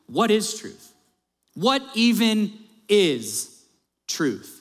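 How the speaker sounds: a touch of mock disdain, slowing on the last "What even is truth?"; sarcastic scorn. Preacher voicing Pilate to Jesus, lightly sarcastic. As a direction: toss off the question with a light sneer. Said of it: "Pilate said to him scornfully, or in other words, sarcastically".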